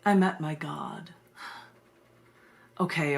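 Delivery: measured, solemn poetry recital with long pauses; poem reading. Acted. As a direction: read it like a spoken-word piece, slowing on key words. Reads her poem aloud.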